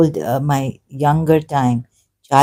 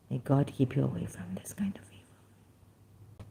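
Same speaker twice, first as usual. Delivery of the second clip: whisper; 10 dB quieter than usual. Real, not acted. Whispered blessing.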